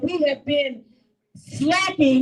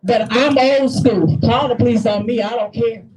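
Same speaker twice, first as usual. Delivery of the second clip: defiant loud declaration; 2 semitones lower, 6 dB louder than usual. Real, not acted. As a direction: plant your feet and dare them. Defiant outburst at rally.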